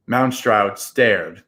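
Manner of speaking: plain reading voice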